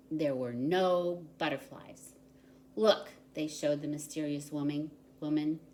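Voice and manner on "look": calling out. A narrator's reading. Townspeople show their empty hats.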